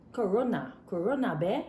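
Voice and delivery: halting attempt at a Chinese accent; imitated Chinese accent. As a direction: try out a mock Chinese accent. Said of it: "how the Chinese man, they talk out the word".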